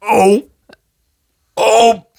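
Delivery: loud, bright Midwestern "ope" exclamation. Shown as a demonstration. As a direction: blurt it like a Minnesotan bumping a cart. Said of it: "That's a Midwestern thing".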